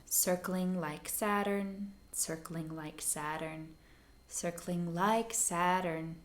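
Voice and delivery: "Circling like Saturn" said slowly, feeling for the long and short syllables; spoken aloud, testing rhythm. Shown as a demonstration. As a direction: try the phrase aloud, weighing each syllable. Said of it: "Say it out loud a couple times".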